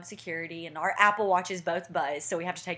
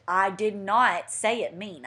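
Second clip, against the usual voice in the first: slow, word-by-word mock denial; defensive denial; 3 dB louder, slower than usual. Fiance defending himself in car argument, defensive denial. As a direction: spell out each word deliberately.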